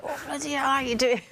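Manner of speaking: a hint of her cheerful father greeting her; imitating her dad. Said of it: "I can't speak like my dad because he'd always say something like".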